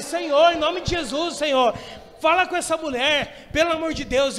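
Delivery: loud pleading cry to the Lord; crying out in prayer. Retold or imitated. Pastor shouting a desperate all-night prayer to God, loud pleading. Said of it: "E eu gritando".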